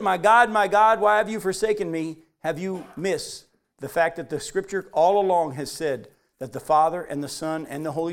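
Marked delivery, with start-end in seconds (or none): 0.0-2.2 mild cry. Retold or imitated. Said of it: "Jesus cried out".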